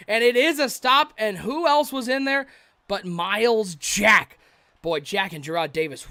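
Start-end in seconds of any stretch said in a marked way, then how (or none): 0.1-4.4 loud and slowing, building to the name; milk the big stop for drama; excited stop call. Real, not acted. Big defensive stop called.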